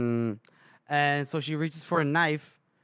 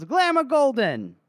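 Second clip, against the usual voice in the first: high, hollered name, acted; hammed-up drunk announcing a name; drunken call-out; 9 semitones higher, 4 dB louder than usual. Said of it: "dude that's been drinking".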